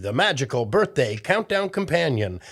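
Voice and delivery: fast, chirpy sponsor announcement; quick upbeat commercial read. Acted. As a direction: rattle off the sponsor message like a kids' show ad.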